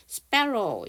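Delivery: "sparrow" sounded out as a model word; demonstrated pronunciation. Shown as a demonstration. Teacher shows learners how the word sounds, demonstrated pronunciation. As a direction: say "sparrow" clearly as a phonics example. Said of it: "이렇게 발음 나고요".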